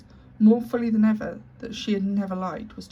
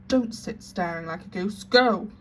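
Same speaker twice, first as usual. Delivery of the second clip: scornful command; 4 dB louder than usual. Acted. Headmistress berates sister.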